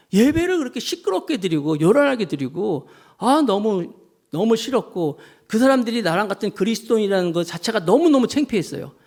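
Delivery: plaintive grievance, pitch climbing as it builds; aggrieved complaining. Retold or imitated. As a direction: imitate someone pouring out a complaint. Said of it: "하고 주님께 하소연을 했어요". (억울한 듯 하소연하는 흉내)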